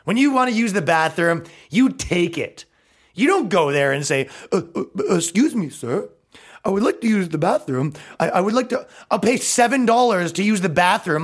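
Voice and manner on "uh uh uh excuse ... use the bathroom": lightly hammed-up hesitant pleading, higher pitched; mock timid customer. Mocking a man asking sir to use the bathroom, timid and higher. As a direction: stammer it like a meek pushover. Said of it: "like a bitch".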